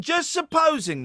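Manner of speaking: high, slow, drawn out; spooky conspiracy tease; mock spooky voice. Teasing a conspiracy idea.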